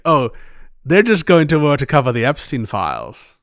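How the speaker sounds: a light attempt at Keira Knightley, British-tinged; half-hearted posh film-star voice; Keira Knightley impression. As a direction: tries a Keira Knightley voice for a suburban opinion. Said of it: "I don't know why I tried to do that. Keira Knightley".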